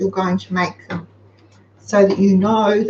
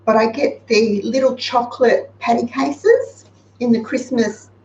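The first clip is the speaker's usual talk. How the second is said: talking through hiccups; hiccuping between words. Real, not acted. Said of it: "I've got the hiccups".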